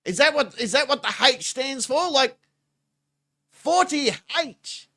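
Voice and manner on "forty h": slow, high and drawn out; awed repeat. Real, not acted. Repeating the number to the viewers, slow and awed. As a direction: savour it in disbelief.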